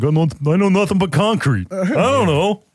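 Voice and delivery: high-pitched fake Philadelphia accent. Talking about Philly transplants in the suburbs, doing your best Rocky accent. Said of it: "my best Rocky accent is like".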